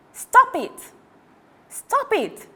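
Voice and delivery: put-on girl yelling at the monster holding her. A narrator's reading. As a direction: scream it while dangling upside down. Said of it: "yelled Louise".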